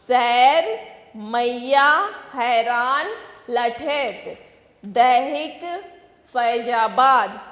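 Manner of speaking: a teacher calling out spelling words one by one; slow, deliberate classroom word drill; word list read to children. Shown as a demonstration. Teacher reads word list aloud.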